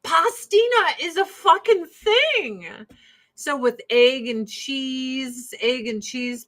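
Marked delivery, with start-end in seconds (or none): 0.0-2.7 high, slow surfer-bro drawl; mock dude voice. Telling her husband pastina is real, mock dude voice. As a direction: stretch it out like a stoner dude. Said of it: "And I'm like".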